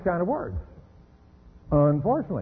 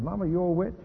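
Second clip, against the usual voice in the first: put-on sassy little girl; 4 dB quieter than usual. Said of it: "the little girl turns to you and says".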